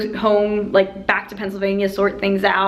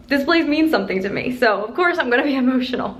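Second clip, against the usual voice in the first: emotional; 4 semitones higher, faster than usual. Real, not acted. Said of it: "I knew it was gonna get emotional".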